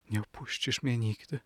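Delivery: put-on soft, hushed young lady's question; whispered plea. A narrator's reading. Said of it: "szepnęła młoda dama". (cicho, niemal szeptem)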